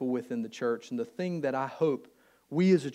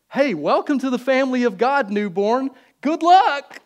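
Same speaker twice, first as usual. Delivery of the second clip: higher and louder, breezy and dismissive; mock cheery send-off; 8 semitones higher, 8 dB louder than usual. Church member mockingly waving off a newborn believer, loud breezy send-off. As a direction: toss it off like a careless farewell.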